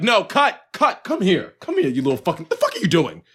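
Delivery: a hint of a fed-up film director yelling cut; mock director. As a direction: play the angry director halting the take. Pretends to direct the show.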